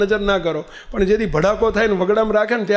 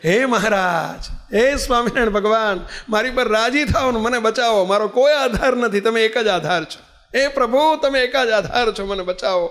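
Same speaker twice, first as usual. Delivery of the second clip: acted desperate prayer. Devotee hanging in the ravine prays to God, imitated pleading. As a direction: call on God as if stranded, mildly acted. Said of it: "એમણે તરત શરૂ કરી".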